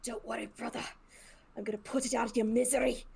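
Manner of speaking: a touch of dramatic consoling; lightly voiced solemn promise to a foe; mildly hammed-up comforting; lightly acted mercy-killer. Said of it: "and I'm like".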